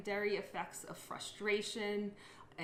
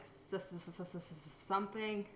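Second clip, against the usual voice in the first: syllable repetition stutter. Shown as a demonstration. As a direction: repeat "s-" several times before "something". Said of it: "If I was going to say the word something".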